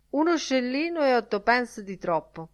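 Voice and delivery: dry, understated verdict; said drily. A narrator's reading. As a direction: deliver it as a deadpan jab. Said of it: "disse seccamente mister Dedalus".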